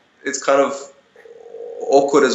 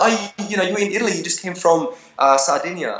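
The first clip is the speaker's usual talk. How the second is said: imitating a fan; 7 semitones higher, faster than usual. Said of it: "She's like".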